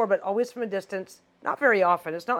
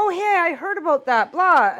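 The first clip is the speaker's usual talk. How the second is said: mock know-it-all; 8 semitones higher, 6 dB louder than usual. Mocking partner's know-it-all reply.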